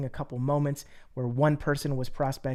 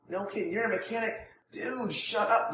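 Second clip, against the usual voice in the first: hyped amazement; 6 semitones higher than usual. Shown as a demonstration. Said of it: "if you're enthusiastic".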